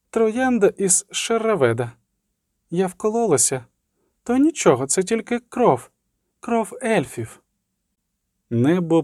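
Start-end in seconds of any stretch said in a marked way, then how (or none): 0.1-7.4 lightly voiced girl, high and calm; serene, high-pitched child reassuring an adult. A narrator's reading. Girl telling the sorceress the prick is nothing, calm. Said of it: "сказала спокійно дівчинка".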